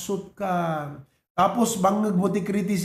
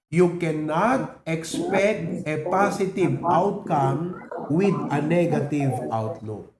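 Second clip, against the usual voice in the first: drawn out, chanted with the crowd; slow group recitation; slower than usual. Shown as a demonstration. Pastor leading the church in unison, slow chant. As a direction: say it slowly together, like a chant. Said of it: "Ready, go".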